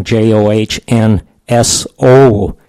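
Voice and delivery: slow letter-by-letter spelling. Shown as a demonstration. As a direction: spell each letter slowly. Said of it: "Norwegian spelling".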